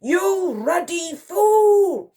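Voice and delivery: slow, high, loud fury; raging. A narrator's reading. Admiral berating the private, raging. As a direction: rage with each word drawn out. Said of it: "raged the Admiral".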